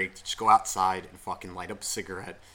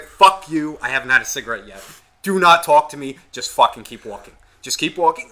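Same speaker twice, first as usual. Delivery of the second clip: louder, snarling at the cheerful couple; grumpy outburst; 2 semitones higher, 9 dB louder than usual. Retold or imitated. Cigarette-less smoker snapping at a happy couple, annoyed and loud. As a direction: bark them away before your smoke. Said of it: "And I'll be like".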